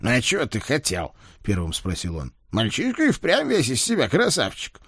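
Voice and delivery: Ed's remark. Acted. Ed's voice in dialogue.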